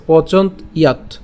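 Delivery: "পচন্ত ইয়াত" slowly in two parts, ending on t; syllable-split pronunciation. Shown as a demonstration. Teacher adds the final t, split "পচন্ত ইয়াত". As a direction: separate pochont from iyat in "পচন্ত ইয়াত". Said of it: "তটাকে উচ্চারণ করবো".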